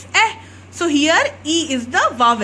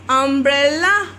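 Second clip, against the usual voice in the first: slow modelled word. Shown as a demonstration. Teacher models Umbrella slowly for young pupils. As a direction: say Umbrella slowly, every sound clear. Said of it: "teacher models the word".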